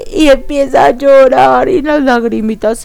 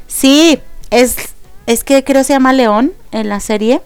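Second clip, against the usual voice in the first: ordinary talk, nothing marked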